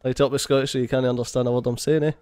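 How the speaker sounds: upped Scottish accent; broad Scottish accent. Shown as a demonstration. Challenged by friends to up it, thick Scottish accent. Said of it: "you need to up the Scottish".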